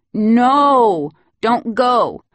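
put-on high, loud tearful child protest; child crying out. Little boy begging nanny not to leave, tearful. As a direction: plead through tears not to be left.

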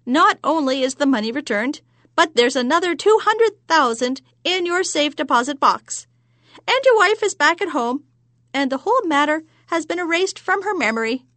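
high, loud gloating hag; witch voice. Acted. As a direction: boast like a pleased witch. Witch keeps speaking.

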